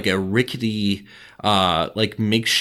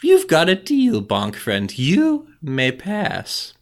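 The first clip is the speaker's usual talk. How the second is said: goblin voice; 6 semitones higher, slower than usual. Acted. Goblin gatekeeper.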